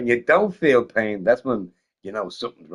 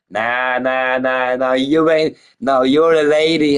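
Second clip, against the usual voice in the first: insistent dude; 4 dB louder than usual. Retold or imitated.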